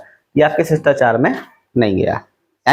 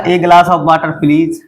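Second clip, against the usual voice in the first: polite demo; much slower than usual. Shown as a demonstration. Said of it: "आपने गिलास मांगा".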